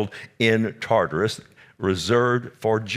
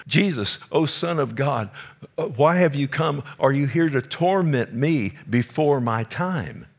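higher, strained demon crying out to Jesus; 5 semitones higher than usual. Retold or imitated. Preacher voicing the demon that confronts Jesus, raised and tense. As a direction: voice the demon pleading, pitched up and tense. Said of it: "that was a demon speaking".

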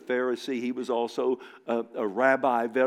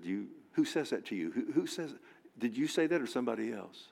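hushed Jesus; 6 dB quieter than usual. Acted. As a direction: answer Pilate gently, almost privately. Jesus answers Pilate.

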